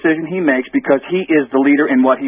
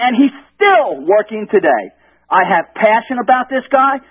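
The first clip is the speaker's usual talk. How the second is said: high, fired-up rallying plea; passionate; 6 semitones higher than usual. Real, not acted. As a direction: pour real conviction into every line. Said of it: "I hear your passion".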